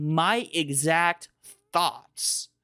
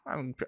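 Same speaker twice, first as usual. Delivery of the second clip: shaky sigh; 2 semitones lower, 11 dB quieter than usual. Real, not acted. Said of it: "I'm trying not to cry here".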